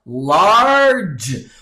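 "Large" stretched long as one sound; one long, swelling "Large"; drawn-out single syllable. Shown as a demonstration. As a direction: say "Large" slowly in one open-and-close of the mouth. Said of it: "Então fica assim, ó".

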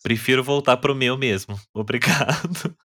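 retold answer with a laugh; laughing while saying it. Customer turns down the new cake while laughing. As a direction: laugh through the thank-you. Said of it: "falei dando risada, falei rindo".

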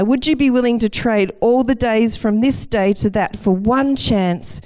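William Wallace. Retold or imitated. Speaker retells Braveheart's speech to the troops, lightly rousing. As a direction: deliver a mildly stirring mock oration, building to the last word. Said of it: "And he says".

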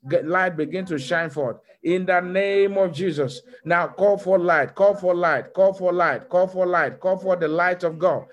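rhythmic commanding prayer chant; fervent prayer. Acted. Pastor leading the church in prayer, fervent command. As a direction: call out each line like a decree.

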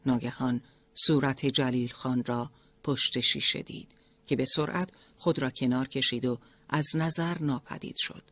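plain reading voice

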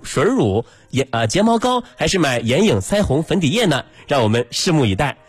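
formal live field report; news anchor voice. Shown as a demonstration. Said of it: "用播音腔说话". (播音腔)

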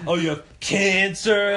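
mock sympathy. Mocks the customer's sob story.

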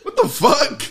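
mock outrage broken by laughter; incredulous laughing rebuff; laughing disbelief. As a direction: act shocked, laughing through it. Reacting to a proposal.

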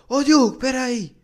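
high, loud call from a distance; retold yell. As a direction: shout his name to stop him. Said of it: "ouço um grito tipo assim".

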